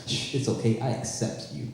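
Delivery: soft shushing comfort; hushed reassurance. Retold or imitated. The joke calms Gerard in an embrace, hushed and tender. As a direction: hush him gently, almost breathless. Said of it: "put a finger on both my lips and says".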